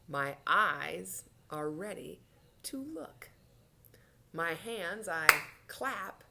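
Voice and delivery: slow, measured recitation; children's action rhyme. Shown as a demonstration. Teacher gets children ready for a story, slow rhyme. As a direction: chant it line by line, pausing for actions.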